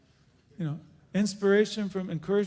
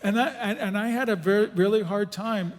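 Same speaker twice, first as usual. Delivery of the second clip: laughing through words; 4 semitones higher, 6 dB louder than usual. Real, not acted. Laughing while recalling hard time.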